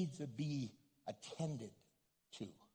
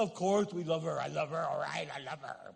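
unconvincing; 2 semitones lower, 5 dB louder than usual. Pretend. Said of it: "that sounds so convincing".

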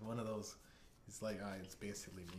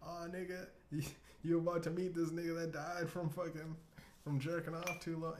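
Horrible Oracle; 7 semitones higher than usual. Acted. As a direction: announce it high as a comic medium. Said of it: "He's talking to the dead".

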